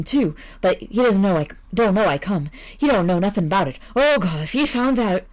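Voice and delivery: a frightened man begging, tripping on his words; terrified visitor. Acted. Visitor explaining, panicking.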